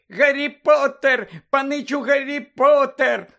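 high, loud, drawn-out elf cries; piercing squealing. A narrator's reading. Little elf rushing to greet Harry, piercing squeal. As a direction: squeal each name out at full pitch. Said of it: "пронизливо викрикуючи".

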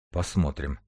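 low, soft muttered reply; stunned mutter. A narrator's reading. A surgeon somewhat shaken by the newcomer, muttering noncommittally. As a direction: mutter it, slightly taken aback. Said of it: "пробормотал несколько потрясённый Клим".

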